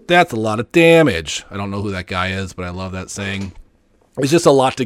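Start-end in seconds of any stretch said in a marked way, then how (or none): 0.1-1.4 punchy TV pitchman read; infomercial voice. Retold or imitated. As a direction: sell it like a late-night ad. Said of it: "in my best, uh, infomercial voice".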